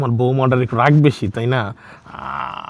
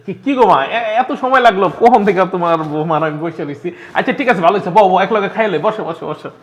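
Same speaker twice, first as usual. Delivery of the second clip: forced cheer; 5 semitones higher than usual. Acted. Son fussing cheerfully as his mother comes to eat. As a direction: keep it jolly.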